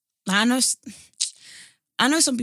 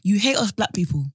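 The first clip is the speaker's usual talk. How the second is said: louder, accusing the absent actress; heated, raised-voice accusation; indignant accusation; 5 dB louder than usual. Acted. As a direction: lay the charge on her directly. Heated mock address to absent actress.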